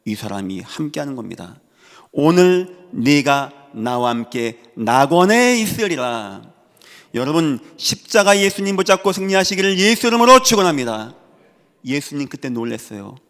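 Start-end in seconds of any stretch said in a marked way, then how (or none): 2.1-6.4 loud, very slow, drawn-out words; solemn scripture declamation. Acted. Preacher declaiming Jesus's promise to the man beside him, solemn and loud. 7.1-11.1 loud, high, swelling pulpit cry; full-force preaching blessing. Real, not acted. Preacher blessing the congregation in Jesus's name, loud and fervent.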